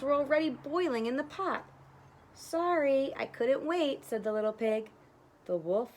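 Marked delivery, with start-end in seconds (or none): 2.3-4.0 pig. Acted. Pig answers the wolf.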